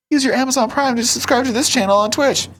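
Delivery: talking through a covered hand; muffled voice. Acted. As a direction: hand over the mouth, muffled. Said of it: "I don't know why you gotta cover your mouth".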